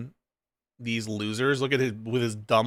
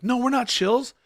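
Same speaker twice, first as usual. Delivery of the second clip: mocking impression; 11 semitones higher than usual.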